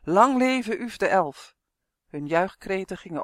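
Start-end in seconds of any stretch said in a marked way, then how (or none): 0.0-1.5 loud, slow jubilant cheer, pitched up high; a cheering crowd's slow, drawn-out shout. Acted. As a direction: hail the hero at the top of your voice. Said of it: "riep de menigte".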